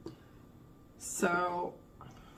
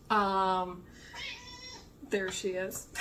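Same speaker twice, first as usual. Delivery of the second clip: cat meowing in background; slower than usual. Real, not acted. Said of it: "you're gonna hear my cat complaining".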